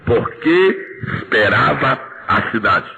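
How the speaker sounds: slow, drawn-out unison recitation; slow reading together. Real, not acted. Preacher has the church repeat the verse slowly. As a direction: stretch out "esperava". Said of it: "Só isto".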